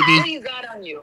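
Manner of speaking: very high laughing thug voice; squeaky mugger. Retold or imitated. The mom joins the baby-mugging joke, in a very high, laughing thug squeak. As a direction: squeal it like a tiny robber. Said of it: "joining the mugger joke".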